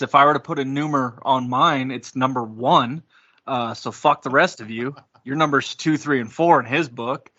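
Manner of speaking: normal talking voice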